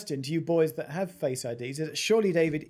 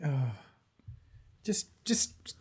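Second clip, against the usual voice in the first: mock whisper; slower than usual. Podcast co-host stage-whispers his fingerprint advice, mock conspiratorial. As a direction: whisper it like a sly tip.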